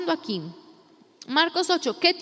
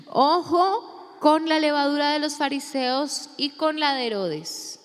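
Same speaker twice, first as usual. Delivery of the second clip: Colombian Jesus; slower than usual. Acted. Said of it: "este es un Jesús colombiano".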